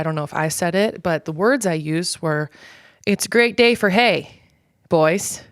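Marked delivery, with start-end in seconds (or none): 3.1-5.4 a hint of a hearty hick cheer; Letterkenny quote. Quoting the show on her hay bale clip, lightly hearty. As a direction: toss it out like a lightly voiced farm boy. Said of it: "direct quote from Letterkenny".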